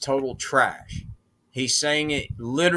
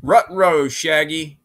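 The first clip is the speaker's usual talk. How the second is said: Scooby-Doo voice; 2 semitones higher, 7 dB louder than usual. Retold or imitated.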